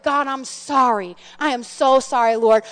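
retold heartfelt prayer, slowing on the sorry; sincere apology. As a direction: plead sincerely with God for forgiveness. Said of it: "so then I get sincere".

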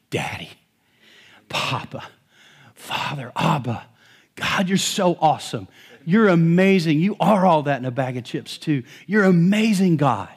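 intimate praise, starting hushed then rising joyfully; familiar prayer. Pretend. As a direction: talk to God like a loving dad. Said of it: "I say".

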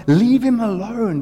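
high, slow, loud cry to leave him be; pleading shout. Acted. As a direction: call out over the crowd to protect him. Crowd scene, plea to stop beating.

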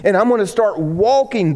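a hint of Jesus set on moving on; resolute Jesus. Jesus telling the crowd he must go.

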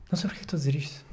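unvoiced self-conscious whisper; embarrassed whispered mumble; whispered aside. Real, not acted. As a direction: drop to a whisper, talking to yourself.

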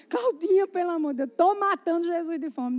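imitating a distraught wife's wail; mock tearful wail. Crying wife begging Claudinha, mock tearful wail. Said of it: "Começou a chorar e dizer".

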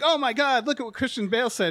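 high "oh my God", then rushed; mock shock. Podcaster mimicking people overreacting to actor's quotes, mock-shocked. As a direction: imitate scandalized readers gasping over a headline.

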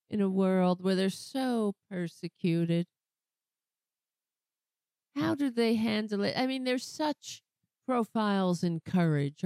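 dripping fake pity; sarcastic mock sympathy. Real, not acted. Host mocks Republicans with fake sympathy. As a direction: pretend to pity the poor persecuted.

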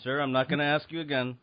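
escalating stern commands; calm turning angry. Pretend. Guard escalates at shopper.

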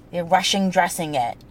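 rushing dressing with dropped G's; rushin' dressin', tripping over the words; Boston accent. Shown as a demonstration. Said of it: "trying to say rushing dressing".

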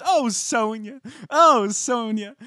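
high, drawn-out mock titter; giddy high mock laugh; imitating Ramona laughing. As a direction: coo the name like a delighted socialite. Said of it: "She laughed".

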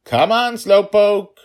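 very high, loud impatient call; bursting to go; eager little girl. Acted. Daughter cutting off her father, high loud eager.

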